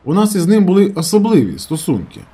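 особливі singled out, leaned on with weight; stress on особливі. A narrator's reading. Ernst to Herman, hinting meaningfully, stress on особливі. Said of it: "Він постарався виділити слово «особливі»".

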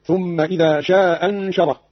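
شاء أنشره run together as "sha anshara", short vowel; first hamza dropped, short. Shown as a demonstration. Teacher showing Qalun's short reading, شاء أنشره with one hamza. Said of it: "بإسقاط الهمزة الأولى".

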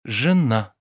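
calmly. A narrator's reading. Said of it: "покойно произнёс Обломов".

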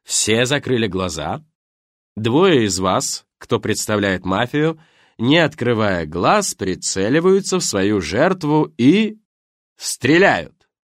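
slow, loud, measured proclaiming; host calls out instructions to his guests, slow and loud; host's game announcement. Acted. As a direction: lead the game with a practised stage voice. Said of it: "хорошо поставленным голосом".

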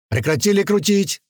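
sharp commanding shout; barked command. A narrator's reading. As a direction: bark at them to stop. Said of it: "снова рявкнул парень".

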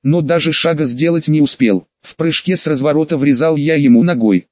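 usual speaking voice

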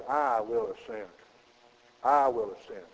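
I punched in I will ascend; proud I in I will ascend; stress on I. Shown as a demonstration. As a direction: lean hard on the word I. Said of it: "with an emphasis on the "I".

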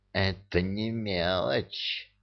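quiet slow hiss. A narrator's reading. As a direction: hiss it with hatred. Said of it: "прошипел Амар".

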